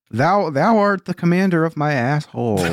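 mock Old English, grand; renaissance fair olde speech. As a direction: proclaim it like a Shakespeare player. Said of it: "Old English".

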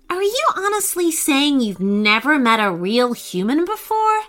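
gently incredulous, lifting at the end; gentle question. Acted. Nayanu questions the creatures, asking gently. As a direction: ask it as kindly as possible, rising on the last word. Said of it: "asked Nayanu as gently as possible".

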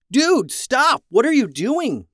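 high, loud shout of alarm; alarmed yell. A narrator's reading. Jackson shouts at his transforming brother, alarmed yell. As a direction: yell it out, shocked and high-pitched. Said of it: "Jackson yelled".

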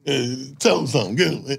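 mock hype call. Project kid calling the funny one over, loud hype. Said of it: "If you fun".

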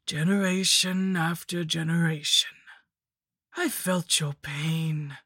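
lightly voiced gloating lich; witch voice. The Lich boasts to Marion.

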